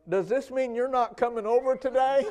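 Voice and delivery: a hammed-up tearful plea; mock crying plea. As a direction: play her whining while laughing. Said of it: "the lady began to cry".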